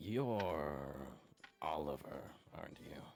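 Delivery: rasping, hoarse voice. A figure addresses Oliver as he walks by, in a raspy voice. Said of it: "a raspy voice speaks out".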